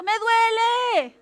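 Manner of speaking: loud, high, long-drawn cry of pain; grito de dolor. Acted. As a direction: wail it out as the complaining body. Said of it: "tu cuerpo que está gritando". (alarido de dolor actuado, muy alargado)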